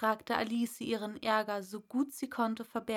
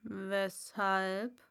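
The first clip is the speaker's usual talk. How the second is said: Raupe. Acted. Raupe voiced.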